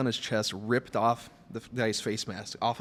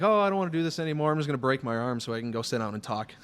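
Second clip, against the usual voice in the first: mock whiny wrestler; 3 semitones higher, faster than usual.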